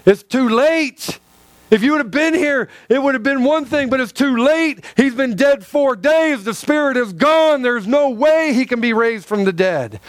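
indignant. Retold or imitated. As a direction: protest that it is far too late. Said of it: "that's why she is so indignant".

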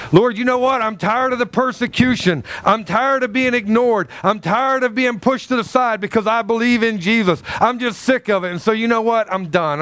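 mock whiny rant to God; a lightly voiced tantrum; fed-up complaint. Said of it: "there are times where I have went".

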